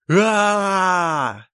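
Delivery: long high wailing scream, full volume; Billy shrieking in the fog; wild scream. Acted. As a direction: let out a savage cry of terror. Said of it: "раздался дикий вопль Билли".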